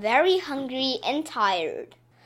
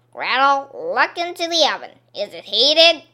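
bossy witch; 3 semitones higher, 9 dB louder than usual. Acted. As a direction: order the girl around. Witch commands Gretel.

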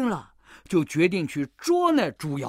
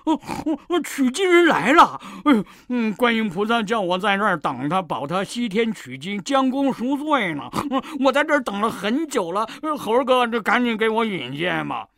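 higher, louder joyful cry; excited; 3 semitones higher, 4 dB louder than usual. Acted. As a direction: burst out with delight. Pig learns pilgrims arrived.

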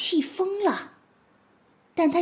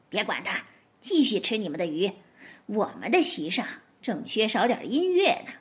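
soft and low, laughing through the words; quiet giggling; 3 semitones lower than usual. Acted. Fox to wife and cubs, quietly laughing. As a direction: whisper the joke to the family with a chuckle. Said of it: "她笑着悄悄地对他们说".

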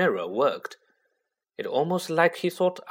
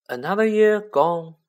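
bright raised, high announcement; cheerful; 7 semitones higher, 6 dB louder than usual. A narrator's reading. Headmaster opens the feast to the hall, cheerful. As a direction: call it out cheerfully, higher and louder. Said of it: "Dumbledore said cheerfully".

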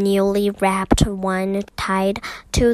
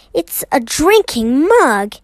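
louder and higher with pleasure; light up as you say it; delighted exclamation; 5 semitones higher, 5 dB louder than usual. A narrator's reading. Mister Gruber opening his parcel, exclaiming with pleasure. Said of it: "he exclaimed".

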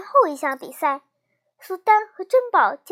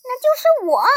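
loud, higher boast; loud answer; 7 semitones higher, 5 dB louder than usual. A narrator's reading. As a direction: call it out boldly, pitched up. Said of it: "大声地回答".

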